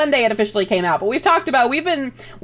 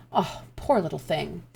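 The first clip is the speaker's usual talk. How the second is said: concerned cluck; 3 semitones lower, 9 dB quieter than usual. A narrator's reading. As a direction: soothe a hurt child. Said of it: "She clucks in concern".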